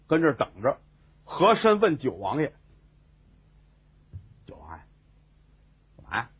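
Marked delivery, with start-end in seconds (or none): 4.5-6.3 drowsy mumble. Acted. Prince answers sleepily.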